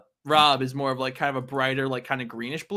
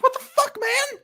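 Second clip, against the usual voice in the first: much higher, squeaky indignant cry; outraged yelp. Retold or imitated. Rob yelping at Silver after being thrown into a wall, outraged. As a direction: shriek it in mock outrage.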